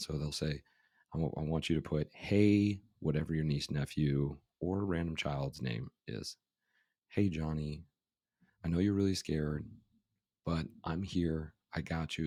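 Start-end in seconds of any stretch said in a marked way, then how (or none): none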